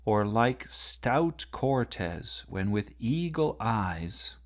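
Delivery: slow, measured recitation; reading the lines aloud slowly; slow poem reading. Shown as a demonstration. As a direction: read the verse slowly, weighing each word. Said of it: "if you look at the last four lines".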